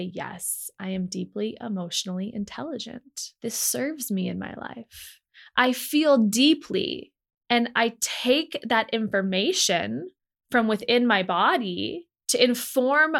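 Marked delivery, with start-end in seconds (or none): 0.0-7.1 calm affirmation. Shown as a demonstration. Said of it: "bring a new energy to it and say".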